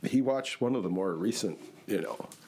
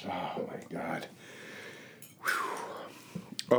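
mouth on fire; 6 semitones lower, 6 dB quieter, much slower than usual. Real, not acted. Mouth burning from hot sauce.

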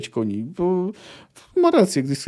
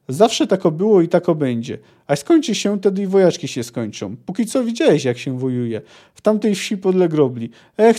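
lively audiobook-style reading of a novel passage; story reading; 2 semitones higher than usual. A narrator's reading. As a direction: read the book scene aloud with a little life in it. Reads a Sapkowski passage aloud.

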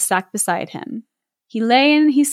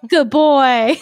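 doting dog-praise voice; praising a dog; 3 semitones higher, 4 dB louder than usual. Pretend. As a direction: gush over a heroic dog.

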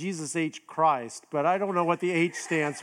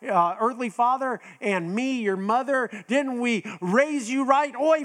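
hurt Jewish mother; 5 semitones higher than usual. Pretend. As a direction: overplay the guilt-tripping mother, ending in a laugh. Sermon, Mary voiced as upset mother.

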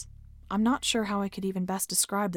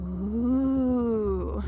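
dismissive sarcasm. A narrator's reading. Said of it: "I said with a dismissive sarcasm".

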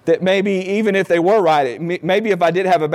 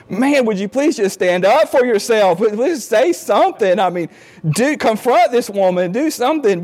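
higher, pleading with rising frustration; exasperated pleading; 4 semitones higher than usual. Retold or imitated. To the meek husband on TV, exasperated pleading. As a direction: beg him to stand up for himself. Yelling at TV character.

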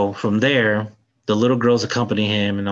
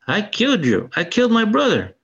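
higher, menacing villain boast; demon's confession; 10 semitones higher than usual. Retold or imitated. Demon gloating to the hero about killing his father, mock menacing. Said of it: "He goes".

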